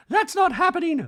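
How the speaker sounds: high, loud mock refusal; hammed-up indignant refusal; the speaker refusing. The speaker in a talking head, loud acted indignation.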